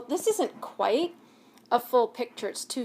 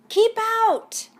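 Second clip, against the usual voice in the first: much higher, louder angry yell; grumpy cactus yelling; 11 semitones higher, 9 dB louder than usual. Acted. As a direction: bark it at the intruder. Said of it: "yelled Hank".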